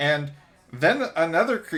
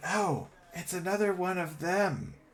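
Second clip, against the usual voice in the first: chittering creature voice, quieter; 3 semitones higher, 6 dB quieter than usual. Voicing kobolds talking among themselves about a newcomer: chittering kobold voice. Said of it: "the kobolds are kinda chittering to themselves".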